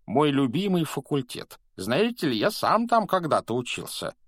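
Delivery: very high, loud jolly preacher ghost; loud, high cry of delighted discovery; delighted exclamation. A narrator's reading. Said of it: "продолжал улыбаться проповедник".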